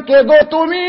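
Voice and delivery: high, loud plaintive question, imitating a crying girl; lightly acted tearful wail, pitched high; mock tearful. Preacher voices a weeping girl asking a youth, mock tearful. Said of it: "মেয়েটা কান্দে আর বলে".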